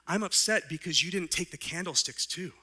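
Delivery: kindly bishop pressing a gift on the man who robbed him; bishop's voice. Retold or imitated. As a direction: play the generous bishop, lightly voiced. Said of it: "And he says".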